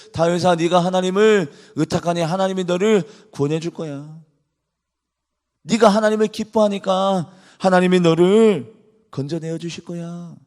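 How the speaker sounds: mocking reassurance, lightly voiced; sarcastic mocking. People ridiculing David, light mocking sarcasm. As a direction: pretend to comfort him, with a sneer. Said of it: "비꼬면서 이야기를".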